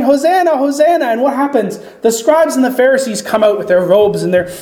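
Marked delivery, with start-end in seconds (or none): 0.0-1.0 higher, brighter cheering call of Hosanna; mock children's yell. Children in the temple praising Jesus, a mild mock yell.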